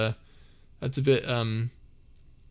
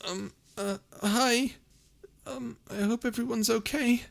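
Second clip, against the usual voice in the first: higher, airy character voice saying hi; Calamos voice; 11 semitones higher than usual. Acted. Chat asks Calamos to say hi, a higher shy greeting. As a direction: pitch up into a shy little character. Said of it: "Can Calamos please say hi?".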